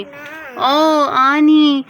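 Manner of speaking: thrilled squeal of greeting; excited cry. Acted. Niece greeting her aunt, excited squeal.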